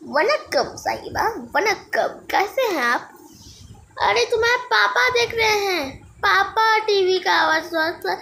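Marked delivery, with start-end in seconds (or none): 0.1-3.1 lower, light mock Tamil accent; lightly put-on Tamil accent, amused. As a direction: greet like a Tamil TV host, hammed-up a little. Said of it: "ये तमिल सा आवाज".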